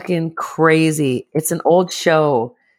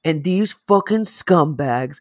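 slow stern host. Retold or imitated. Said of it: "he always goes".

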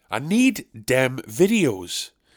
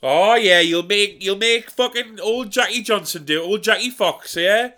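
martyred whinge; 4 semitones higher than usual. Acted. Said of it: "instead of just saying".

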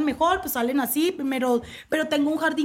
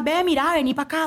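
acento de Cali, como enojada; acento caleño golpeado. Shown as a demonstration. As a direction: demuestra el caleño, seco y golpeado. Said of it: "yo hablo más como enojada". (acento caleño, como enojada)

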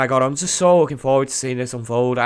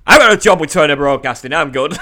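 indignant mock outburst, louder; Mean Gene; 7 dB louder than usual. Announcer turning down a wrestler's job offer, mock indignation. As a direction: imitate an irritated announcer's brush-off. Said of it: "I love angry Mean Gene".

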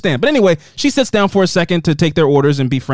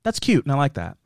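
mock girly reply; 4 semitones higher, 7 dB quieter than usual. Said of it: "The girls are always like".

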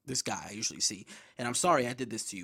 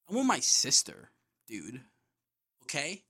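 indignant retort; 2 semitones higher, 5 dB louder than usual. Retold or imitated. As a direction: argue back as in an imagined quarrel. Imagined angry rebuttal to gym guy.

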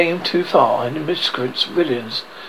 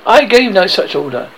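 shaky; 4 semitones higher, 5 dB louder than usual. Acted. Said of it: "he said, shaking a little".

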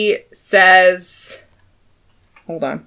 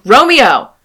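high, loud, drawn-out alarm shout; acted yelling; 8 semitones higher, 8 dB louder, slower than usual. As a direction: yell it as Tybalt raising the alarm. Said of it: "What are you yelling about?".

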